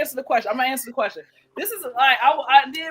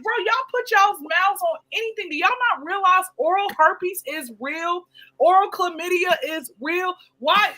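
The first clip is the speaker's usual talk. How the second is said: disgusted quote; 6 semitones higher than usual. Retold or imitated.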